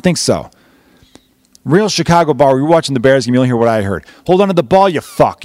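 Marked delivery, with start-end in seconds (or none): 4.3-5.4 imitated fan's yell. Bears fan to the player on TV, mock yell. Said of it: "You hear people yell out".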